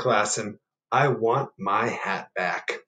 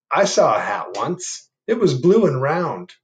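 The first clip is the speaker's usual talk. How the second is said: slow, louder, unhurried reply; slow lightly voiced animal; 4 semitones higher, 7 dB louder than usual. Animal telling the bear about a hat, slow. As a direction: answer slowly and helpfully.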